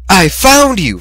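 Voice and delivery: high triumphant crow; gleeful triumph at finding him. A narrator's reading. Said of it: "Fluttershy crowed".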